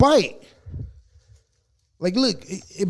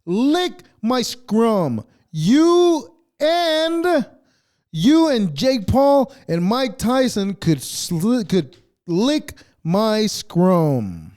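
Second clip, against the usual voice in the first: very slow, drawn-out mocking taunt; taunting comeback; 2 semitones higher, much slower than usual. Telling the prankster off, a slow sneering mock taunt. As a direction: stretch every word to rub it in. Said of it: "the only answer you could have given him".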